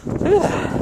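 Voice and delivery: breathy whisper of look at that; whispered awe. Real, not acted. Whispered at the snow depth.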